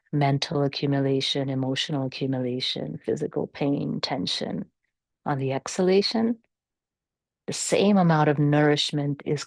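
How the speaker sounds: calm, measured meditation guidance with long pauses; guided meditation. Real, not acted. Yoga teacher settling the class into natural breathing, calm guided meditation. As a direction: guide them gently through the breath, unhurried.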